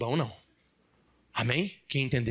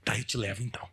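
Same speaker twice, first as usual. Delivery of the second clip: gullible turtle; 8 semitones lower than usual. Acted. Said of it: "a tartaruga besta falou assim".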